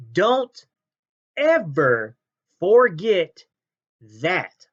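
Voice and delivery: loud read of a caps-lock comment, forget punched; reading in all caps. Retold or imitated. Reading a fan's all-caps comment aloud, half-shouted. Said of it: "All in capital letters".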